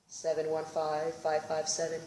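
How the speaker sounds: a hint of a dazed drunk; lightly voiced drunk guy. Drunk intruder answers nonsensically.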